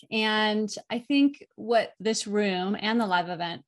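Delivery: normal talking voice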